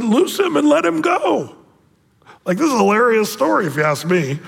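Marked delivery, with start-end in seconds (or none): 0.0-1.6 higher, slow proclaimed order; raised command. Acted. Jesus ordering the grave clothes removed, higher slow call. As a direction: call it out to the crowd. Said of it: "And then Jesus said".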